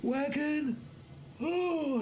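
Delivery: sudden startled yelp; surprised squeak. Real, not acted. Game surprise mid-sentence.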